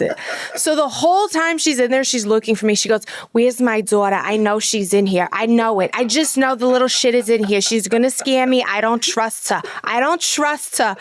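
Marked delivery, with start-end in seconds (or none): 3.3-11.0 lightly imitated Brooklyn mom accent; grumbling New York mom, Brooklyn vowels; Fran Drescher. Mom hunting for her daughter in the haunt, light Brooklyn accent. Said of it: "talks like Fran Dresser".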